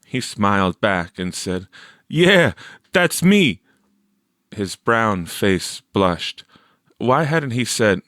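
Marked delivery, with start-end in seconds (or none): 2.1-3.6 put-on higher, slow boyish reply; a lightly voiced shy boy; boy's voice. A narrator's reading. Victor answering Teresa, higher and slow.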